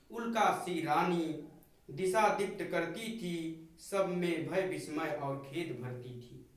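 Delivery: measured, solemn verse recital; poem recitation. Acted. Teacher reciting the poem to the class, solemn recital.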